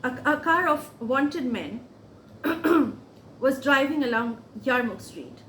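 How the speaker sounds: measured, earnest reading with deliberate pauses; monologue reading. Acted. Reader voicing a young Gazan's war testimony, earnest monologue reading. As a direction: read a testimony aloud, letting phrases stand apart.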